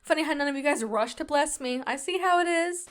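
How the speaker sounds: replayed mock-offended remark, lifting at the end; sarcastic. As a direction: act slighted as an obvious joke. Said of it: "like, being sarcastic".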